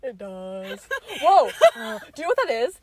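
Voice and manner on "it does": low, buzzy voice in the face mask; nasal resonance. Shown as a demonstration. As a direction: push the sound into the mask. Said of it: "this is what it's from".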